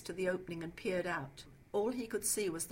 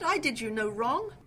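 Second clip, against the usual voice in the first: louder, higher protest; indignant demand; 4 semitones higher, 8 dB louder than usual. A narrator's reading. Trapped man pleading his innocence, indignant demand. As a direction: insist on it with raised voice and pitch. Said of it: "he demanded".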